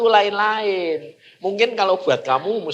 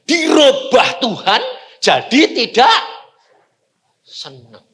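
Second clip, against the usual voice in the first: louder and slow; emphatic declaration; 3 semitones higher, 5 dB louder than usual. Real, not acted. Preacher tells the congregation what God changed, emphatic and slow. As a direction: proclaim it with force.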